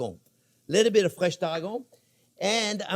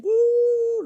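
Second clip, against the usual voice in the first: retold woo; 8 dB louder than usual. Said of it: "the pan was just like".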